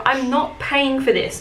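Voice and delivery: mock customer standing firm; indignant refusal. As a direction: put your foot down, mildly indignant. Acted refusal to the manager.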